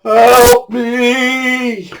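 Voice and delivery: high, startled cry for help; sudden high plea from the wrecked car; frightened plea. Retold or imitated. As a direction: call out like a trapped, scared woman. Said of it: "this woman turned around and went".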